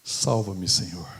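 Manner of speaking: loud plea, dropping low; desperate cry to God; cry for help. Retold or imitated. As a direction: call out for rescue. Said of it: "engolir o orgulho e gritar".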